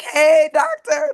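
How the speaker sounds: high, loud, drawn-out hey doctor; excited greeting. Real, not acted. Guest greeting the doctor warmly and loudly, excited. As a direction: call out to the doctor with delight.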